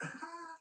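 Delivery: soft, high acted giggle; coy giggle. Cleopatra charming Caesar in his room, coy giggle. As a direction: giggle lightly and flirtatiously.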